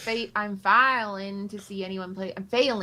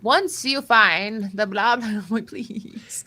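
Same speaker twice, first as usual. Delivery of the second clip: makeup TikTok lady voice; slower than usual. Pretend. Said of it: "that voice you use sounds just like".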